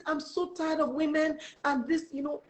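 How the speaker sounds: high, slowed exasperated imitation; angry recruiter. Recruiter fed up with women underselling themselves, acted exasperated. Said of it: "so angry with me".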